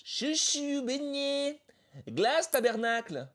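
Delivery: very high, loud singsong vendor call. Acted. Beach vendor calling out her snacks, very high singsong. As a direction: cry out your wares across the beach.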